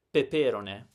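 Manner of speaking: peperone stressed on the second syllable "pe"; wrong stress. Shown as a demonstration. Teacher showing what nobody would understand, misplaced stress. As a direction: hit the second "pe" of peperone, "rone" weak. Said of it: "with the wrong stress".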